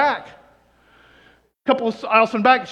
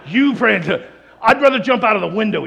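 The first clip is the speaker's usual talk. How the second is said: louder mock refusal; indignant refusal; 6 dB louder than usual. Preacher refusing the Holy Spirit, indignant. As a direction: push back, mildly indignant. Jack Hayford's acted refusal to pray.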